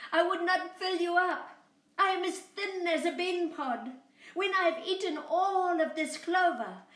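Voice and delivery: high, loud bleating lamb voice; little lamb pleading with the coyote, high and bleating. Acted. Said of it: "Boragita bleated".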